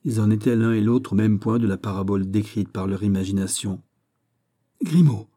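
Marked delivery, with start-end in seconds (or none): 4.8-5.3 calls Grimaud, louder and higher; cry out. Acted. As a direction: shout the name Grimaud across the street. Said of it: "s'écria Raoul". (crie le nom, plus fort et plus aigu)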